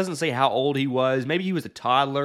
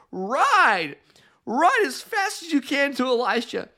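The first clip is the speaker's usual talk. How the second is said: urgent order; 10 semitones higher than usual. Retold or imitated. Mother urgently orders the servant.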